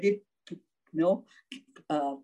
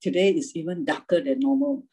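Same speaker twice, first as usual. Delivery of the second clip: scripture reading. Acted. Reads Isaiah sixty aloud.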